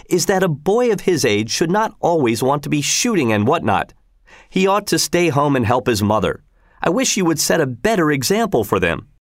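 a hint of a nagging housewife objecting; fretful mother. Mother scolds about shooting.

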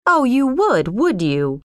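sarcastic retort, high then dropping; mildly outraged comeback; indignant cry. A narrator's reading. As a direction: throw it back at her angrily. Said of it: "cried John".

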